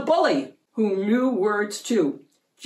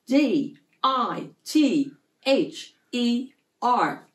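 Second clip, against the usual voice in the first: each letter spelled out slowly and apart; 4 semitones higher, slower than usual. A narrator's reading. Girl at the spelling bee spells the word slowly.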